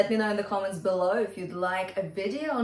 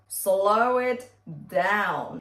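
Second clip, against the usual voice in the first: Slow it down stretched out slowly; demonstrating a slowed tempo, very slow; 3 semitones lower, much slower than usual. Shown as a demonstration. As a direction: drag each word of Slow it down out. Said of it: "If you find it too fast".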